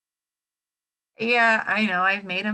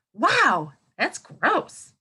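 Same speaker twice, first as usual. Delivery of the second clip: mock disgusted; 3 semitones higher, 4 dB louder, much slower than usual. Shown as a demonstration. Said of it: "we're thinking about wow facts".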